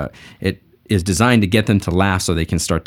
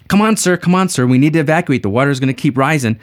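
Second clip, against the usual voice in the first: higher, pleading rescuer voice; urgent rescuer; 5 semitones higher than usual. Acted. Rowboat rescuer pleading with the man, urgent and high. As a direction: coax him into the boat.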